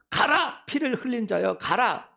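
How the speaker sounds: mock curse, first word shouted high; cursing. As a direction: hurl a curse at the fleeing king. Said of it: "다윗을 막 저주하잖아".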